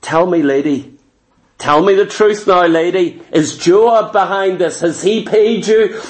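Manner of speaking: King David pressing the widow for the truth; suspicious king. Acted. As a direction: press her for the truth from low down. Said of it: "Suddenly he goes".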